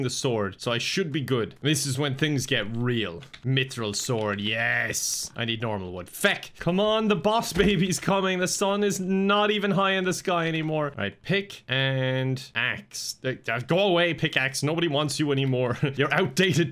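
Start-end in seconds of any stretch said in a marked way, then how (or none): 6.1-10.9 anxious hurry. Real, not acted. Urging before boss arrives.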